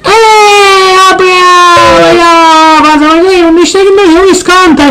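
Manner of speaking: put-on high, eager kid; excited child voice. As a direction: chirp it like a small child.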